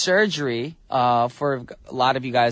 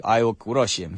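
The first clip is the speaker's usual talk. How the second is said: put-on tough foreign-accented "I will crush him", lightly done; a hint of a Dolph Lundgren-style action hero accent; mock foreign accent; 5 semitones lower than usual. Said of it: "do it with an accent like".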